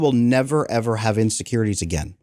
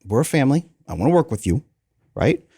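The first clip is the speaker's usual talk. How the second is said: patient and gentle, talking to his son; a dad calmly settling his son at bedtime, reassuring. Retold or imitated. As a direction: soothe a tired child at bedtime. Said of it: "I sit down and say".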